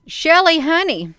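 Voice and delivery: high loud call, then easing. Real, not acted. Streamer calls to Shelley off camera, affectionate call out. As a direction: call her name across the room. Calling to someone in the room.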